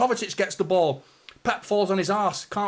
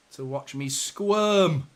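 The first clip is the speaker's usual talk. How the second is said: squirming laugh; much slower than usual. Real, not acted. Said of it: "because I am squirming".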